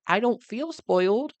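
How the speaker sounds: high, defiant denial; indignant protest. Retold or imitated. Daughter answering parents who call her spoiled, high and indignant. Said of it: "personally, I'm like".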